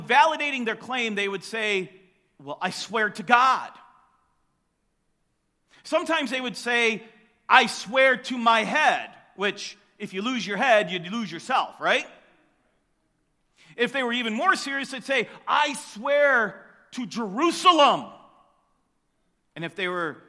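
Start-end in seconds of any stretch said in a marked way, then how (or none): 2.4-3.7 loud, emphatic "I swear to God"; imitating a loud oath; mock oath shout. People validating a claim. 7.5-9.1 slow, loud "I swear to my head"; imitating an emphatic oath; mock oath. People swearing oaths. 15.5-18.1 slow, loud, stretched "Jerusalem"; imitating a pompous oath; mock solemn oath. More serious oath.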